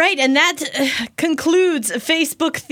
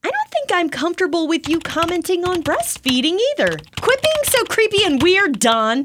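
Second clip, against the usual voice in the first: indignant poster; 4 semitones higher, faster than usual. Acted. Reading Facebook post in character.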